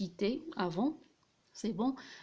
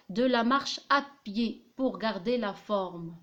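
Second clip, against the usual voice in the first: slow rereading; much slower than usual. Shown as a demonstration. Rereads part to analyse.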